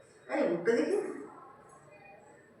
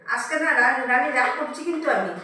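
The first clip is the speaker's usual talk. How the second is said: louder, playful pretend scolding; mock anger; 6 dB louder than usual. Owner pretends to be angry at Rani, louder. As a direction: act cross with the pet, half in fun. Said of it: "রাগ করি".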